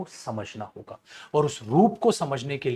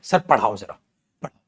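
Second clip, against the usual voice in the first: low, lightly voiced begging student; a kid nagging to be taught; mock student whine; 9 semitones lower than usual. (छात्र की हल्की नकल, विनती)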